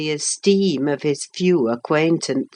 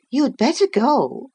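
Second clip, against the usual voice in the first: put-on higher, lightly girlish voice; young woman voice; 9 semitones higher than usual. A narrator's reading. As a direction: voice Catherine a touch higher. Catherine voiced high.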